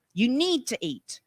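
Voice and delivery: lecturing parent. Retold or imitated. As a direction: explain it like a mild Ted Talk. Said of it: "like a ted Talk".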